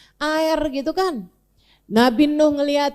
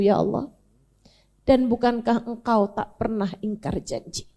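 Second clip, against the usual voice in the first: grieving plea. Acted. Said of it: "Nabi Nuh bilang".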